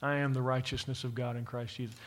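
a hushed personal creed; quiet declaration. Shown as a demonstration. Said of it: "Say it".

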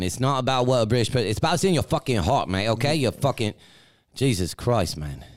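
mock British accent. Arguing with co-host over whether he sounds British, British accent. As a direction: argue in a put-on British accent. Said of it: "He hates my British accent".

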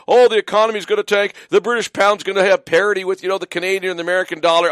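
fast, sing-song mock panic; mocking the fear mongers. Mimicking fear mongers to his radio listeners, mock panic. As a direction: rattle it off like a scaremonger. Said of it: "the fear mongers".

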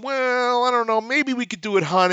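husband stalling while the wife plays bad cop; hesitant husband. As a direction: waver as if you might cave to the seller. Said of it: "like, you're going".

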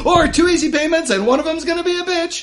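high, laughing infomercial pitch; home shopping host. Acted. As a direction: tack on the price like a TV salesman. Continues infomercial bit.

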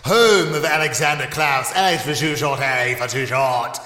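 slow, grandiose proclamation; self-important leader. Acted. Leader giving citizens his five commandments, pompous announcement. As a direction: proclaim it with drawn-out, mock-solemn authority.

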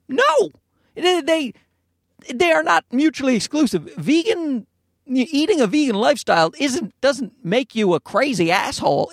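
high, indignant protest; high-pitched mock indignation; exasperated retort. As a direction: shoot the idea down, exasperated.

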